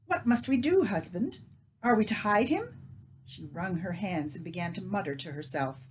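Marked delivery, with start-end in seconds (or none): 0.1-2.8 frantic. Acted. Leah frantic question.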